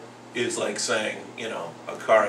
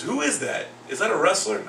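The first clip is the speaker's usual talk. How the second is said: lightly voiced curious schoolboy, higher pitch; second-grade kid; 9 semitones higher than usual. Second grader asks teacher about his painting, lightly voiced kid. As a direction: ask it like a small kid, pitched up. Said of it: "one of my second grade kids".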